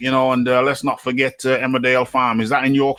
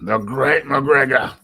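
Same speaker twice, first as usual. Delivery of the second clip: drawn-out, raised mock reverence; mock grandiose; slower than usual. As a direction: proclaim the title slowly, lifting the pitch. Grander repeat of mock title.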